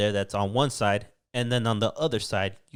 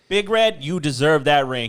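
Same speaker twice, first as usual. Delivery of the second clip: higher and louder, calling out to Big Red; excited cheer; 5 semitones higher, 8 dB louder than usual. Real, not acted. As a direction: cheer him on like he can hear you. Cheering for Andy Reid.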